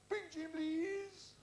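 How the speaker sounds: drawn-out parade-ground call; mock military drill voice; guardsman's order. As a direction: bellow it slowly like a guardsman on parade.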